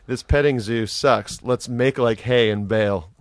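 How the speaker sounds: dad joke voice. Retold or imitated. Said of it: "my dad joke voice".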